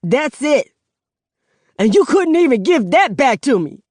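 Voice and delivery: a son breaking down at his mother, voice cracking. Acted. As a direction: let the voice crack on it. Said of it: "His voice cracks".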